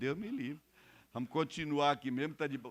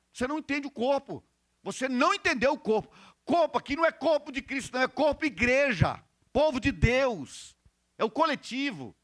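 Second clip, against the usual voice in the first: raised, emphatic pulpit voice; forceful preaching; 7 semitones higher, 6 dB louder than usual. Acted. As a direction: drive each phrase home to the congregation.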